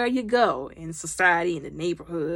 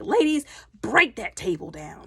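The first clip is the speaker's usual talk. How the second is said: imitating a mean-girl leader, higher voice; nasty mean girl; 4 semitones higher than usual. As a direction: give a haughty order to your posse. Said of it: "just nasty, mean girl".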